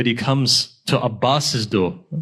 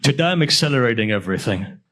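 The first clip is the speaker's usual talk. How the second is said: rushing; faster than usual. Real, not acted. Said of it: "Accelerating, forgetting everything".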